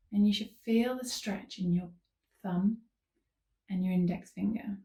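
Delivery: unhurried calm cueing with long pauses; guided yoga instruction. Real, not acted. Yoga teacher leading listeners into gentle stretches, calm guiding voice. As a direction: guide them gently through each movement.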